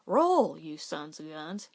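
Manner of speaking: a loud bark at the horses to roll; gruff shout at horses. A narrator's reading. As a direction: call out to the horses like a rancher. Rancher shouting at rolling horses.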